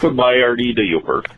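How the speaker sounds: folksy Upper Midwest Yooper caller; small-town Yooper accent, rambling invitation; Upper Wisconsin accent. Acted. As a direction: put on a broad northern Wisconsin accent. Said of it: "trying to do an Upper Wisconsin".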